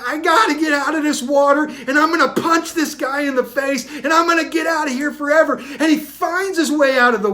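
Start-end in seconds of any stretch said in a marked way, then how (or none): 0.1-5.5 furious thoughts. Acted.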